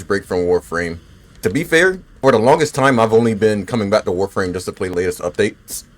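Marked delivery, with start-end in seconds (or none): 1.4-5.8 talking through hiccups. Real, not acted. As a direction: speak with the hiccups. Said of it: "I got the hiccups right now".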